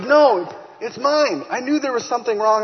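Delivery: high, loud overwhelmed cry of news; laughing and crying. Retold or imitated. Wife calling her husband with shock news, loud and overwhelmed. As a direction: blurt it out half laughing, half crying. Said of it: "We're laughing and crying on the phone".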